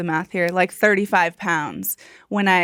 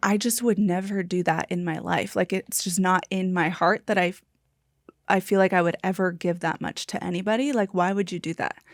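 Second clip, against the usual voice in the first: put-on crying voice, speaking through fake tears; 4 dB quieter than usual. Retelling what a crying woman at a dinner said, imitating someone crying. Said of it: "like came up to me crying".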